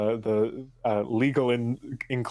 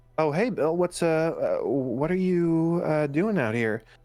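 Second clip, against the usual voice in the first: meek, hesitant, timid, small, pitched-up voice; 6 semitones higher than usual. Narrator voicing a second voice talking to Bill, timid little voice. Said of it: "this sort of timid little uh, voice".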